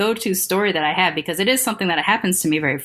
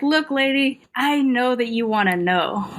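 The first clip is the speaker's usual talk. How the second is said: firm retold confrontation; 5 semitones higher than usual. Retells confronting the lady.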